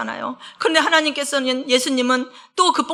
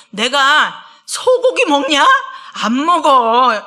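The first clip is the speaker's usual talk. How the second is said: slow, loud, laughing retort; God laughing off the offering of beef; mocking God; 5 dB louder, much slower than usual. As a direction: scoff at the idea with a chuckle. Preacher voices God mocking sacrifices.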